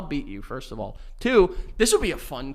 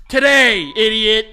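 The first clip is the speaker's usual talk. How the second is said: loud angry dad voice; yelling dad; 3 semitones higher, 8 dB louder, slower than usual. Retold or imitated. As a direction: snap at the kid like a dad. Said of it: "things your dad has yelled".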